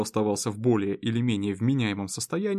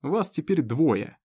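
put-on hiccuping drunk; 3 semitones higher, slower than usual. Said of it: "У Совуха началась икота".

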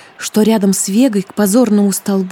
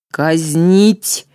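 ruthless clipped order; 3 semitones lower than usual. A narrator's reading. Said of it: "безжалостно отчеканила царица".

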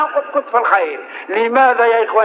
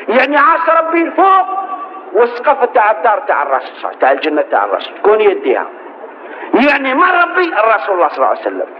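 impassioned preaching. Acted. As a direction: preach it out with full force. Preaching sermon at full force. (خطبة حماسية بصوت عالٍ)

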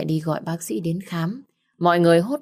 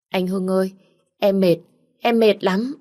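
high, whimpering plea, louder on em mệt; 3 semitones higher, 4 dB louder than usual. A narrator's reading. Nhã Thi clinging to her brother's hand, whimpering and higher. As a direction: whine like a frightened child. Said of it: "cầm lấy tay của cậu Hưng mếu máo".

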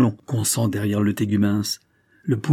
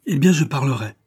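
louder and higher, bursting out; exclaiming; 4 semitones higher, 4 dB louder than usual. Acted. Lady losing patience with the duke, a louder outburst. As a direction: finally let it burst out. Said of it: "s'écria-t-elle".

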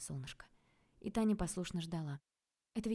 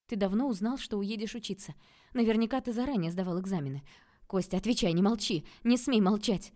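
loud, higher desperate demand; louder and higher desperate cry; desperate shout; 4 semitones higher, 8 dB louder than usual. A narrator's reading. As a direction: shout at him to answer. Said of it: "в отчаянии кричала Таня".

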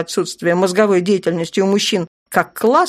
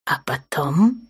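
sly; 3 semitones lower, slower than usual. A narrator's reading. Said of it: "лукаво заглянул ей в глаза".

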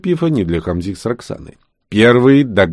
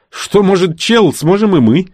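high, loud declaration; raised, defiant cry; defiant boast; 10 semitones higher, 5 dB louder than usual. A narrator's reading. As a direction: declare it before a final push. Witch's defiant boast before pushing.

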